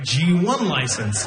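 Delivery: "G one license." slow and deliberate; emphatic repeat. Shown as a demonstration. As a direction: spell out "G one license." slowly for effect. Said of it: "you heard me right".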